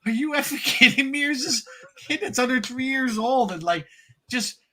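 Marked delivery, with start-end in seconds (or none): 0.0-3.5 much higher, overwhelmed disbelief; retold losing it. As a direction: re-enact being floored, pitch way up. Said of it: "I absolutely lost it".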